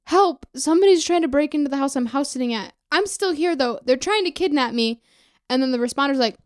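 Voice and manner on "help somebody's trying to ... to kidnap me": higher-pitched mock plea for help; re-enacted panicked call. Dreamer calling nine one one, mock panic. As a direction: act out an urgent emergency call.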